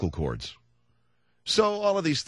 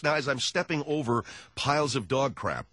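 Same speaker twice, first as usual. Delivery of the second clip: normal talking voice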